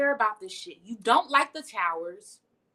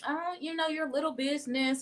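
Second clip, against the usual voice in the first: higher, lightly sneering little business; dismissive mock quote; 5 semitones higher, 3 dB quieter than usual. Narcissist downplaying your business, light sneer. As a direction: brush it off like a smug narcissist. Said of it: "in their narcissism and telling you".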